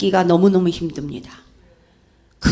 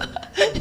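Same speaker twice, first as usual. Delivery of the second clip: high laugh; 11 semitones higher, 6 dB quieter than usual. Real, not acted. Laughs at Jesus' remark.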